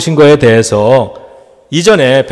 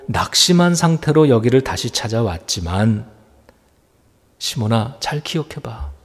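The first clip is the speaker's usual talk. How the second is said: tender Jesus. Retold or imitated. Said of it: "말씀하는 거예요".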